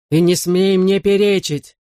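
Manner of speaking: angry cry. A narrator's reading. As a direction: forbid it angrily, drawing the words out. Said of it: "закричал он".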